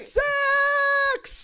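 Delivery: mock shout. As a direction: bellow it like a victory cry. Cheering the friend's story.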